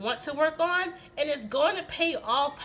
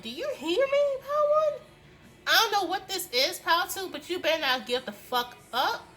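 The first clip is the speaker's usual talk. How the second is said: excited yelling; 7 semitones higher than usual. Real, not acted. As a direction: hype them up, nearly shouting. Shouting at the pile excitedly.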